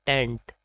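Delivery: टेंट with a full e vowel; wrong syllable. Shown as a demonstration. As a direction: say टेंट like a camping tent.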